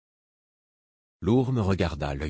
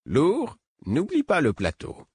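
gently; 10 semitones higher, slower than usual. A narrator's reading. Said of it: "fit Imbre avec douceur".

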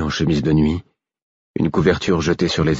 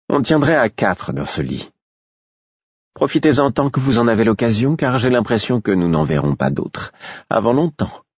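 higher, coaxing woman's voice; lightly voiced minstrel; 6 semitones higher than usual. A narrator's reading. Minstrel urging the narrator to share the bed, lightly coaxing. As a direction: coax him, light and higher.

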